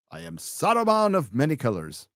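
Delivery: lightly voiced grand wizard; a hint of pompous proclamation, swelling mid-phrase; Saruman. Wizard announcing his new title to a rival, lightly grand. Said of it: "exchange between Gandalf and Saruman".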